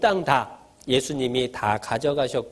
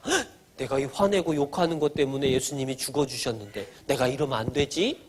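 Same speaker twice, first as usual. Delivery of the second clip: soft, lower inner voice after a small gasp; checking oneself; 4 semitones lower, 5 dB quieter than usual. Acted. Preacher voicing a child holding back anger, hushed self-check. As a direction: catch yourself and think it over quietly. Acted second thought before losing temper.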